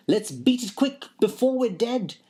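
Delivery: a high, hurried frightened cat voice; the cat squeaks in panic to flee. A narrator's reading. Frightened cat urging Whittington to flee, in a high panicky voice. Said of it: "now very frightened".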